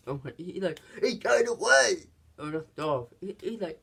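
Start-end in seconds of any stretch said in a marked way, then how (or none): 1.0-2.0 louder, higher panicked cry; retold partner yelling that he escaped; excited shout. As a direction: blurt it out like a rookie caught off guard. Partner excusing himself, shouting.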